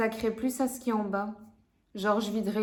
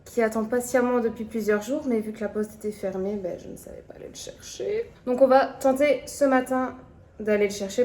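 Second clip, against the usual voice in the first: staccato; 6 dB louder than usual. Real, not acted. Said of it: "Pourquoi je parle en saccadé comme ça".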